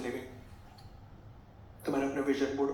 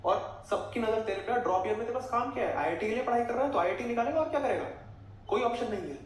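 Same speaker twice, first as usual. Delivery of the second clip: higher, steady mock mother's rant; imitating mom ranting; 7 semitones higher than usual. Mother lecturing son about fees and relatives, high mock rant. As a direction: play mom listing every lakh spent, exasperated.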